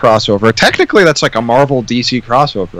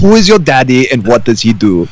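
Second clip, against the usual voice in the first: Arnold impression. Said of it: "Kindergarten Cop".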